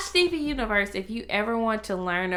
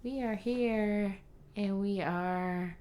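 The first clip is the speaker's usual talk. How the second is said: faint and fading out; trailing off like a ghost; fading away; 7 dB quieter than usual. Real, not acted. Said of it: "Why do you sound like a ghost?".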